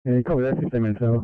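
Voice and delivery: tinny two-way radio voice; police radio. Real, not acted. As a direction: dispatcher over crackly radio. Dispatch radio exchange.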